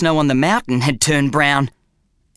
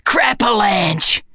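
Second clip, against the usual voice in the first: slow dread; 6 semitones higher, much slower than usual. A narrator's reading. Bum announcing danger.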